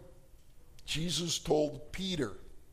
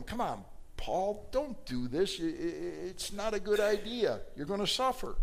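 begging; 4 semitones higher than usual. Acted. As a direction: gently beg Paul not to go. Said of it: "So they're begging with him".

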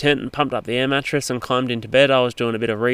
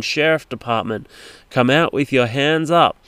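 mock police loudspeaker; 2 semitones higher than usual. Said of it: "repeating itself over the massive big loudspeaker".

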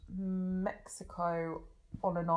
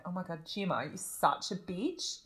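Australian accent imitation; 4 dB quieter than usual. Retelling a TV models' catfight, lightly imitated Australian accent. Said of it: "and she was like".

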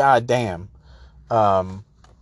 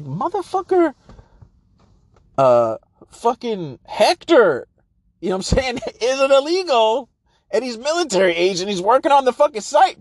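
high, heated rant; exasperated outburst; 9 semitones higher than usual. Real, not acted. Comic ranting at the foreman, high and exasperated. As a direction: blow up at the foreman's nonsense.

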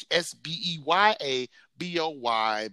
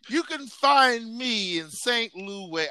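announcer voice; 10 semitones higher, slower than usual. Pretend. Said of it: "I'm sorry, I had to do it".

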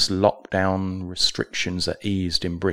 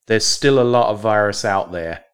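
mock-professorial quote, louder; professorial reading; 5 dB louder than usual. Host reading the professor's quote, mock-professorial tone. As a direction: read it like a stuffy professor. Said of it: "using very professorial language here".

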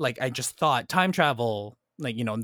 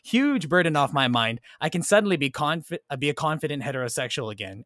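put-on British accent; 2 semitones higher than usual. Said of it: "I don't know why the accent came in".

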